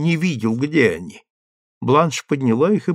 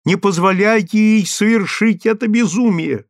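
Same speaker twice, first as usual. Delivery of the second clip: higher and louder, urgent begging; pleading; 8 semitones higher, 5 dB louder than usual. A narrator's reading. Stroeve begging Strickland to spare his wife, loud and high. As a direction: beg him to stop her. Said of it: "умолял он его".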